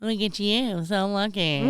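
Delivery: snide, put-on admiration; sarcastic. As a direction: fake congratulations with a snide edge. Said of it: "that's always so sarcastic".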